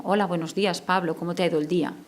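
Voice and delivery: soft, unforced hello with real care; sincere warm greeting. Shown as a demonstration. Teacher greeting Pablo in the morning, soft and sincere. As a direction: greet the child gently and mean it. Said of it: "pero en esa voz hay amor".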